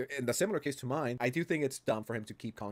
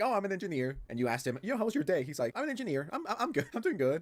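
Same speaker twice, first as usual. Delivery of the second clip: mock boastful Mutahar; 5 semitones higher than usual.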